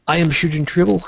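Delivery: normal talking voice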